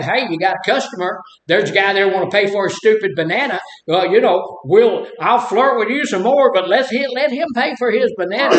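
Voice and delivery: hammed-up scolding call across the checkout; mock scolding. Imagined bagger scolding the cashier.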